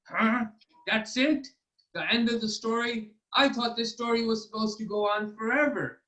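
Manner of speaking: high, incredulous king voice; a king who can't believe it's over; baffled king. Acted. King baffled by short story.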